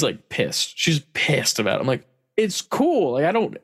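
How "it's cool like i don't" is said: exasperated reassurance. Retold or imitated.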